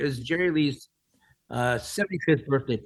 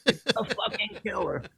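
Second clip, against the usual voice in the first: higher, laughing through the words; laughing quote of a singer; 7 semitones higher than usual. Retold or imitated. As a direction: repeat it again while cracking up. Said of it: "Lemmy goes".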